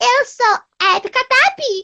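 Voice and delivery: very high-pitched puppet character voice. Showing a co-speaker how the character's voice goes, doing Abby Cadabby's voice. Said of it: "a voz dela é assim, ó".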